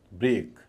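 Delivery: ब्रेक with a long "ay"; long vowel. Shown as a demonstration. Teacher saying the word separately, ब्रेक with long vowel. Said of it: "लंबाई".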